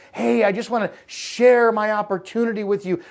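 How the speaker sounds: mocking sales pitch.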